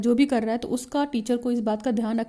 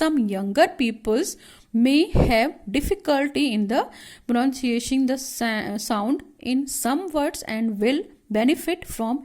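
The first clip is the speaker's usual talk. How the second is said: slow reading aloud; much slower than usual. Shown as a demonstration. Teacher reads the passage slowly to students. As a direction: read the passage slowly, word by word. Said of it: "पढ़ लेते हैं थोड़ा सा".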